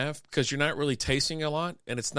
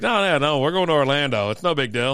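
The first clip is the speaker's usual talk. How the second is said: louder mock brush-off; dismissive protest; 4 dB louder than usual. Relatives defending their Orlando trip, mock dismissive.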